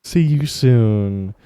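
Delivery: very slow, drawn-out teasing echo; mock repeat. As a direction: stretch the goodbye out to tease. Mock-repeating Peanut's goodbye.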